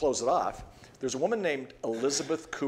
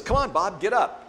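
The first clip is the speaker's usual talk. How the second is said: high-pitched, louder mock urging; imitated coaxing lady; 9 semitones higher, 5 dB louder than usual. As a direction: call out like a lady coaxing a patient up. Upbeat lady urging dying man up.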